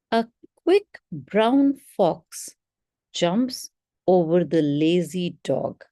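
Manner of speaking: slow read, a pause after "fox", stress on key words; proper pauses. Shown as a demonstration. Teacher demonstrating pauses for a read aloud test, slow and measured. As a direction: pause after "A quick brown fox", then finish steadily. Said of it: "So I'm taking proper pauses".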